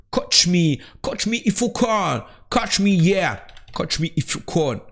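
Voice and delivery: hammed-up English accent, high and drawn out; accent anglais. Shown as a demonstration. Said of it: "C'était pour vous montrer mon accent anglais". (accent anglais forcé, voix haute)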